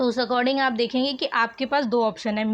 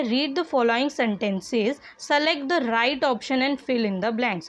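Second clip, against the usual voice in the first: slow dictation reading; much slower than usual. Shown as a demonstration. Teacher reads the exercise instructions.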